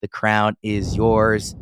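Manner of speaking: upbeat sponsor read, a touch livelier. Acted. Podcast host reading the DraftKings ad to listeners, upbeat ad read. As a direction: sell the sportsbook promo like a radio spot.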